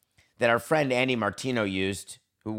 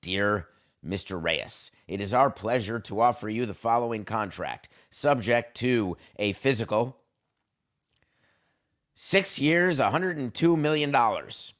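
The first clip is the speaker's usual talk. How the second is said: formal letter reading. Retold or imitated. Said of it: "is exactly how we start offers".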